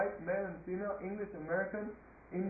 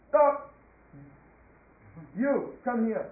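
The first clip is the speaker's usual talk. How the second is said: commanding call from an irritated king; exasperated king; 2 semitones higher, 10 dB louder, slower than usual. Acted. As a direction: order them to halt at once. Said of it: "he could not tolerate it".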